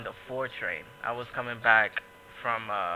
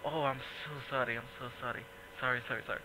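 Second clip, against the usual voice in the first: quiet apology; 7 dB quieter, much faster than usual. Retold or imitated. Drunk man apologizing quietly.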